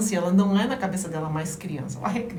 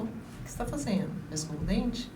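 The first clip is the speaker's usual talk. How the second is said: put-on calm, softer call to the child; lowered calm voice; 7 dB quieter than usual. Shown as a demonstration. Mother calmly asking a child to brush teeth, softly. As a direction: bring your voice down and ask gently. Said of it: "baixa sua voz, reduz a voz".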